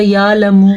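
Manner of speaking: یا لمو with plain long "yaa" and no ع; wrong dropped ain. Shown as a demonstration. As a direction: swallow the throat sound, saying "yaa-lamu". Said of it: "اگر کوئی اس کو واضح نہیں کرے گا".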